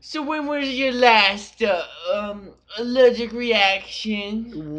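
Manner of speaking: put-on high, slow German accent. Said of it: "Do a German accent".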